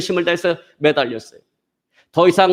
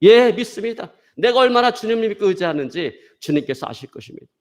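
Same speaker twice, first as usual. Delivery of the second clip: high, emphatic acted profession of faith; eager assurance; 6 semitones higher than usual. Desperate climber assures God he believes, eager high voice.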